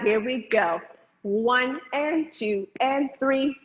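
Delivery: slow, steady calls of the counts; dance count calls. Acted. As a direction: count the students through the steps.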